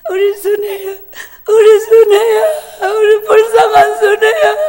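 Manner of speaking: put-on high, crying call of the child's name; mother sobbing. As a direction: wail her name through tears. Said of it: "엄마가 막 그냥 막 울어요". (울부짖듯 높은 울음 섞인 목소리)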